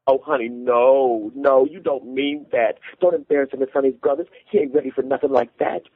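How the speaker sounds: high, alarmed begging; pleading. A narrator's reading. Mother shielding her child from husband, pleading.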